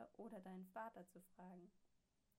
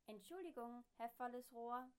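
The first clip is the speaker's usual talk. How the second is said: machine voice; 4 semitones higher, 6 dB louder than usual. A narrator's reading. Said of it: "sagt die Sprechmaschine".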